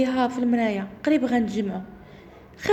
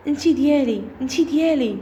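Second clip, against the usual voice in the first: mildly raised, menacing phone voice; thick yelling voice; 4 dB louder than usual. Retold or imitated. Mysterious caller claims Zineb as his, mock menacing yell. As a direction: imitate a thick voice shouting in the ear. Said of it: "شويه سمعت بواحد الصوت غليظ وغوت في ودني".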